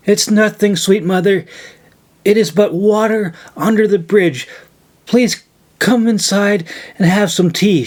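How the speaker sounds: gently insisting, voice lifted; warm insistence. A narrator's reading. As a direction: coax her inside kindly. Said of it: "she insisted".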